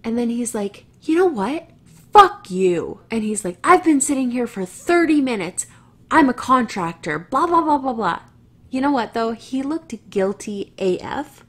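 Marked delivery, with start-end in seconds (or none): 1.0-3.0 higher, then a loud spat-out curse; retold angry yell. Driver cursing at the woman through his window, loud and angry. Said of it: "I just got yelled at". 3.6-8.2 higher, louder defensive rant; retold angry rant. Contractor defending himself to the woman, loud and annoyed. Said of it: "I just got yelled at".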